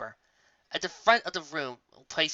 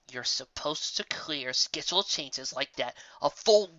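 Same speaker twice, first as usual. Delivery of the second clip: through clenched teeth; slower than usual. Acted. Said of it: "forced out between quietly clenched teeth".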